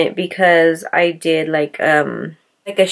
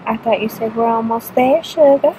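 put-on fancy voice; 3 semitones higher than usual. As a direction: play at being a mock fancy couple, lightly. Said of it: "why we're talking like this, darling".

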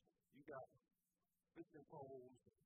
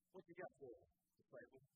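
voicing the Lord; 4 dB louder than usual. The Lord speaking to the boy.

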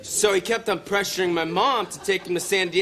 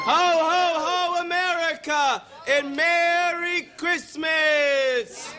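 Santa ho ho ho; 8 semitones higher, much slower than usual. Acted. Santa-style holiday greeting.

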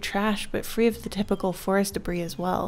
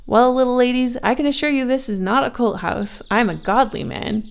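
louder, hearty man calming them; reassuring woodcutter; 4 semitones higher, 5 dB louder than usual. A narrator's reading. Woodcutter reassures two frightened girls, hearty and calming. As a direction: soothe them, palms up, with a chuckle.

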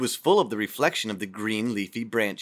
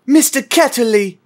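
higher, louder sudden shout of recognition; shouted name; 13 semitones higher, 11 dB louder than usual. Acted. Girl suddenly remembers and shouts the name. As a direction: blurt it out as the memory hits. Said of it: "she shouted out".

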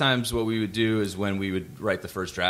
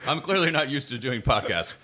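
laughing; 9 semitones higher than usual. Real, not acted. Laughing at own ice chewing.

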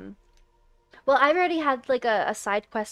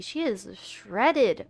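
slow and impressed; 7 dB louder, much slower than usual. Real, not acted. Admiring the character's abs.

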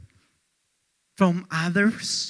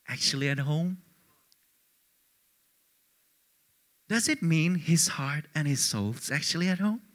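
soft, probing; 6 semitones lower, 7 dB quieter than usual. Shown as a demonstration. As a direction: lower and softer, searching question. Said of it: "he was physically at home".

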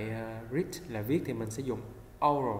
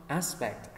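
aspect with stress on AS; stress first syllable. Shown as a demonstration. Teacher drills first-syllable stress in aspect. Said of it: "âm một".

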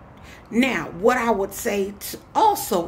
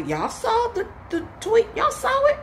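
excited; 12 semitones higher than usual. Real, not acted. Excited question to viewers.

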